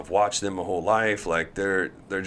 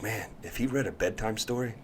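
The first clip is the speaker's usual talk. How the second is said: sleepy; 9 dB quieter than usual. Pretend. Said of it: "out cold".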